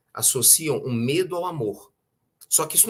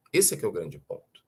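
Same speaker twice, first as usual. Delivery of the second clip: lower echoed repeat; 6 semitones lower than usual. Real, not acted. Lecturer repeats the key point to audience, lower and reflective. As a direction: repeat it lower, letting it sink in. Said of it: "E esse é que é o grande ponto".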